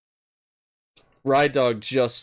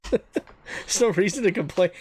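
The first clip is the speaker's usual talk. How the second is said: mocking; 8 semitones higher than usual. Mocking repeat with laugh.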